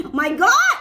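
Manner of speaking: drawn-out, demonstrated gasp of delight; amazed exclamation. Shown as a demonstration. Coach offers followers another reaction, amazed. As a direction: stretch GOD out in showy amazement. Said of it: "Ah, macam".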